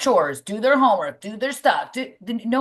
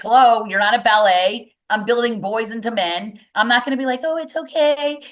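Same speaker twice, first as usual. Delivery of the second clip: lightly voiced strict trainer, a bit louder; a hint of a coach scolding softies; 5 semitones higher, 4 dB louder than usual. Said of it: "And he tells them".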